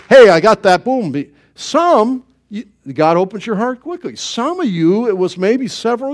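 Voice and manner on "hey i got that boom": louder, quick, cocky exclamation; a hammed-up eureka; mock triumph. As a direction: toss it off like instant success. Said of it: "it wasn't like".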